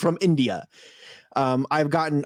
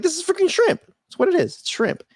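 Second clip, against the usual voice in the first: mock exasperation; 14 semitones higher than usual. Exasperated realizing it's shrimp.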